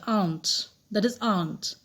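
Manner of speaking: aunt as one low beat, "aant"; barely sounded R. Shown as a demonstration. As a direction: let the R vanish in aunt. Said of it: "बहुत ही धीरे से pronounce होता है". (aunt को "आंट" बोलें, र लगभग गायब)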